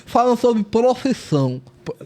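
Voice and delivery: garbled words with tongue out. Real, not acted. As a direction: speak with the tongue hanging out. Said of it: "Ficar um minuto falando com a língua pra fora".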